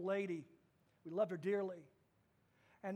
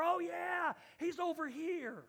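put-on young man answering; 7 semitones higher than usual. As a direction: toss off the answer easily. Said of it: "have you seen Pavier".

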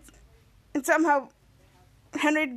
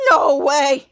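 amazed exclaim; 7 dB louder than usual. Retold or imitated. Henry amazed.

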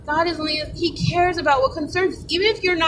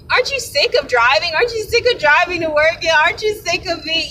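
tempting flesh voice; 5 semitones higher than usual. Retold or imitated. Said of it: "when your flesh is saying".

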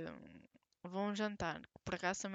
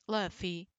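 louder call to the dog; 6 dB louder than usual. Real, not acted. Calling the dog again.

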